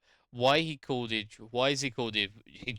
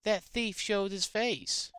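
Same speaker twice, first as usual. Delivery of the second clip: put-on Texan twang, pitched up; Texan accent; 4 semitones higher than usual. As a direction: hail someone in a hammed-up Texan accent. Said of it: "trying to do the best Texan accent".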